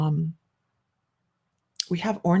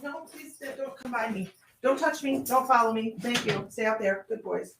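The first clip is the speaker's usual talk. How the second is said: high, soft pet-talk; talking to dogs; 5 semitones higher, 9 dB quieter than usual. Real, not acted. Host shooing her dogs from the camera, high soft pet-talk. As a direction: coax the dogs away gently.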